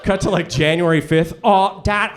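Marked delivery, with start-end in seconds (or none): 1.4-2.1 slow, higher-pitched mock whine; whining child. Kid to Dad by January fifth, slow whining complaint. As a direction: drag it out like a miserable kid.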